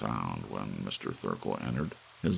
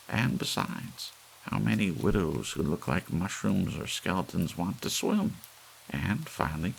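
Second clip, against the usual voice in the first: put-on grumbling old lady; 6 semitones higher than usual. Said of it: "she said aloud to no one".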